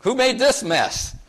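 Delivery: high, slow, exasperated demand; exasperated God. Retold or imitated. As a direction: drag it out in disbelief at the mess. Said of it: "comes back like".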